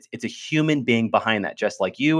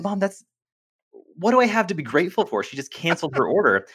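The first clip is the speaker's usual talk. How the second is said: higher, quicker retold teen complaint; indignant protest; 7 semitones higher than usual. Teen son objecting to mom, higher indignant whine. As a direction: whine it like a stubborn nineteen-year-old.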